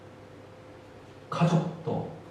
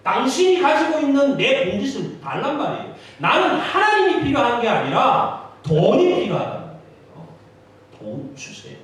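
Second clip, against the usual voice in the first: higher, louder, pushy demand; insistent demand; 5 semitones higher, 8 dB louder than usual. Acted. Rebellious son loudly insisting God hand over money.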